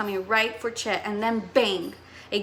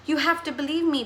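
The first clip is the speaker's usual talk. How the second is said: insisting; 5 semitones higher than usual. Acted. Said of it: "Chet insisted".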